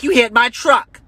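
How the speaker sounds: high mock woman's whine; mocking the lady. Comic voicing the lady accusing him, high mock whine. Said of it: "She's like".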